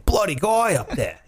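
lightly imitated Aussie fisherman; mock Australian accent. Host guessing what fishermen say, mock Australian accent. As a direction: try out an Australian's slang, playfully. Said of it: "I don't know what they say".

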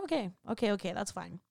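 low, soft, resigned okays; resigned acceptance. Retold or imitated. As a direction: accept it quietly, letting it go. Resigned reply to doctor's news.

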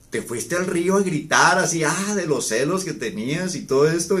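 amazed. Retold or imitated. Amazed question about screaming at river.

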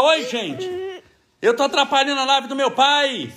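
put-on high, cutesy baby voice for the camera; voicing his baby son. Father speaking as his baby son to the live viewers, high cute baby voice. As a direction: speak for the little one, sweet and high.

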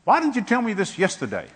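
a hint of exasperation, with a laugh; exasperated question. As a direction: ask God why, half laughing. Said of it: "I said to the Lord".

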